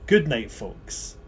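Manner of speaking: drawn-out good night; slow sign-off. Real, not acted. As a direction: stretch each word out slowly. Sign-off said twice.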